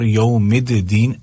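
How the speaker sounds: "الدین" as mid-deen with both d's heard; split double daal. Shown as a demonstration. Teacher giving an example, split doubled d. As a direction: separate the two d's in "یوم الدین". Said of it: "دو دال ہی ہیں".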